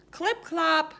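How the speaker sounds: hoof sounds. Acted. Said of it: "the sound of".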